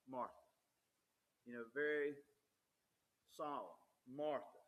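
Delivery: "Martha" said softly and gently, a caring call; a tender, solemn "Martha" spoken to a friend; compassionate, solemn call. Shown as a demonstration. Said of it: "a deep, compassionate, caring response".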